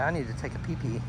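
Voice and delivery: voicing the dog. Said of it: "She said".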